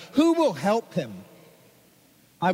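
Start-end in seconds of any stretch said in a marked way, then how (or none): 0.1-1.1 high pleading call; crying out. A narrator's reading. Chorus of angels calling out over the baby, pleading. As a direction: call out for someone to step up. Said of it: "a chorus of angels cried out".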